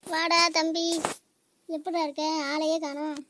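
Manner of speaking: loud, glad call to the brother; calling out welcome. Acted. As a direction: hail him from across the house. Greeting brother who arrives.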